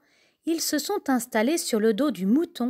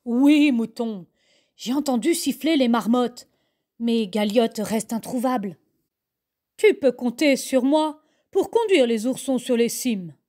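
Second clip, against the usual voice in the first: ibex character voice. Acted. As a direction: reassure the sheep you will guide the cubs. (voix de bouquetin, un peu plus forte)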